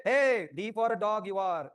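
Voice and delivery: slow, deliberate mock greeting to a dog; playful slow call to a dog; slow mock address. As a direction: say it slowly as if to a stray dog. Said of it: "You must say".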